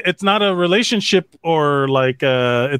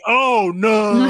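dismayed quote; 6 semitones higher than usual. Retold or imitated. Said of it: "And then you're like".

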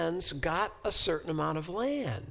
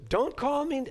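put-on Jewish accent; 7 semitones higher, 5 dB louder than usual. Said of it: "this is my best Jewish accent".

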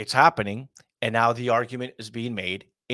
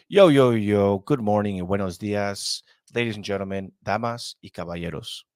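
lucha libre announcer; 3 dB louder than usual. Shown as a demonstration. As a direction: hype bilingual greeting. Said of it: "I'm gonna say".

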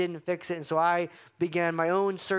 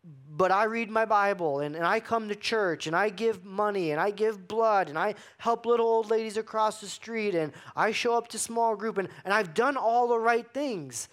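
higher, mock-proud listing; hammed-up list of good deeds; self-righteous churchgoer; 5 semitones higher than usual. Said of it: "he would say".

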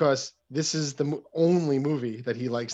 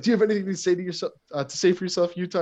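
fast, raised retelling of a boss's grilling; mock telling-off; 6 semitones higher, 4 dB louder, faster than usual. Retelling the boss yelling at Utah after the raid, mock telling-off. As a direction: mildly imitate an irritated chief demanding answers. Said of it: "they're getting yelled at by McKinley".

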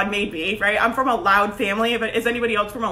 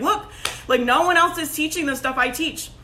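firm, confident sales pitch; assertive; 2 semitones higher than usual. Retold or imitated. Coach recalling her launch video to clients, assertive. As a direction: state it as fact, lightly acted. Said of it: "You know, that's assertive".

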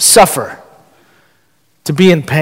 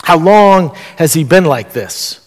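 understated caring question; unhurried question, entering into the pain; gentle concern. Retold or imitated. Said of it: "This is a question of concern".

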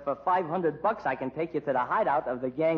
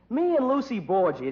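quoting Sadie; 4 semitones higher, 4 dB louder than usual. Retold or imitated. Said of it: "that's what she used to say".

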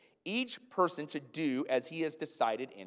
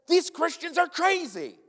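a hint of a puzzled onlooker shaking their head; baffled outsider; 5 dB louder than usual. Pastor voicing outsiders puzzled by generous Christians, lightly baffled.

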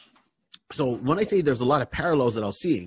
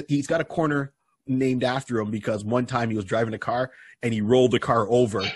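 ordinary delivery

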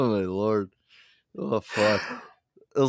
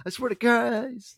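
high, slow exasperated oath; mock exasperated; 14 semitones higher, slower than usual. Cousin swearing in disbelief at the ruined paint, high and slow. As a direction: drag it out, fed up. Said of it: "he was so dramatic".

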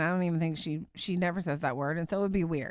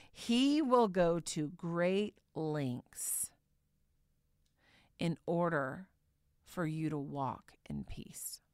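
very slow, fading to a whisper; soft hushed reading; 4 dB quieter, slower than usual. Acted. Preacher reading the promise, slowing into a whisper. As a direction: let it sink to a whisper. Reading sermon point softly.

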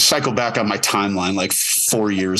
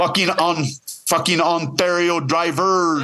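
put-on Quebec accent English; 6 semitones higher than usual. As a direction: yell at Ontario drivers in a Quebecois accent. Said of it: "my Quebec impression of someone speaking English".

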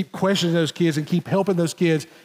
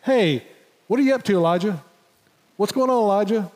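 light, breezy greeting tone; easy, casual "what are you up to"; casual, offhand; 3 semitones higher than usual. Shown as a demonstration. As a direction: toss it off like small talk. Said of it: "more than just a".

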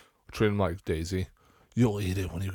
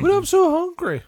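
put-on much higher, louder hungry kid whine; whiny child; 7 dB louder than usual. Child begging dad for food, high whine. Acting kid and parent dialogue.

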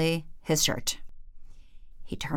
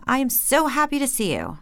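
higher, beaming welcome; enthused; 7 semitones higher than usual. Acted. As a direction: pour on the delight. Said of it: "enthused the king".

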